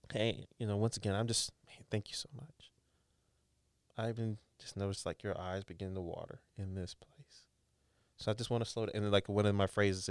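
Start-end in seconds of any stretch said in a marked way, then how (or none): 0.1-1.5 soft therapist voice. Shown as a demonstration. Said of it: "talk about the tears". 1.7-2.7 breathy whispered thanks. Shown as a demonstration. Therapist whispering thanks to a tearful client. 4.0-9.0 soft therapist voice. Shown as a demonstration. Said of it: "talk about the tears".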